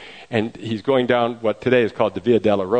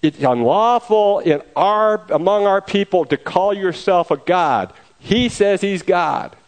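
high, loud and slow accusing yell; crowd member yelling; 8 semitones higher, 3 dB louder, slower than usual. Retold or imitated. A man in the crowd yells at Pilate, high slow loud accusation. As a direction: shout it out from the back of a crowd. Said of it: "somebody in the crowd yells out".

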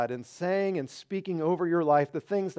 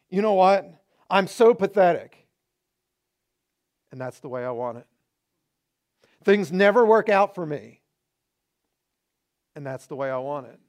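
mock self-pity then flat; 4 dB louder than usual. Shown as a demonstration. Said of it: "the next time you start to say".

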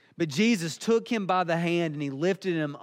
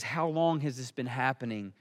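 lower, calm question like a doctor's; 4 semitones lower, 4 dB quieter than usual. Retold or imitated. Jesus asks the father of a suffering boy, calm. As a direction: ask calmly at a low pitch. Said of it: "Jesus calmly asked a question".

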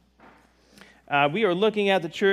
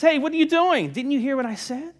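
higher, louder indignant squawk; an offended frog protests, pitched up; 10 semitones higher, 4 dB louder than usual. Acted. Pocketed frog objects to the old man, high and indignant. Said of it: "The frog says".

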